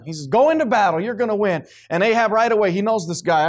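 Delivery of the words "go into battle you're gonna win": lightly mocking encouragement; sarcastic. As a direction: retell a sarcastic pep talk, a bit higher. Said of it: "he must have sensed the sarcasm in him".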